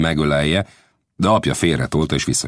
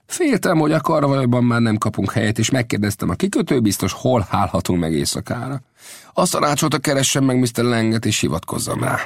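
put-on higher, sly old scout voice; an old scout feeling his way, pitched up; Old Death's voice; 8 semitones higher than usual. Old Death asks Lang's son about the smith.

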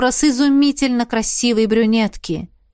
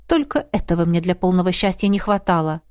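ordinary delivery

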